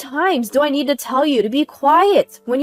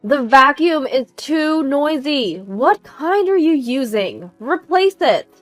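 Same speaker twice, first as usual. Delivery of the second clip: high, loud complaint; scold, ending on a sharp high order; escalating demands; 5 semitones higher, 6 dB louder than usual. Acted. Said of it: "complaints and demands from Dina just escalated".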